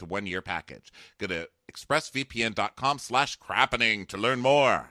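scripted, persuasive sponsor read; podcast ad read. Real, not acted. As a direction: sell it with evenly stressed copy.

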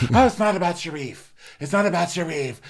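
high-pitched imitation of a dawning realisation; hammed-up high quoting voice; high mock outburst. Acting out realisation about husband.

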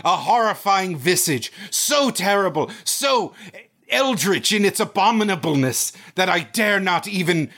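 overwrought horror narrator, building in pitch; mock Lovecraft narration. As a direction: recite with grandiose, mounting dread.

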